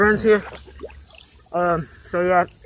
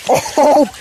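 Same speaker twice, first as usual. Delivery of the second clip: loud, sudden surprised shout; excited shout; 8 semitones higher, 11 dB louder than usual. Real, not acted. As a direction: yell it out as the water hits. Big splash into the pool.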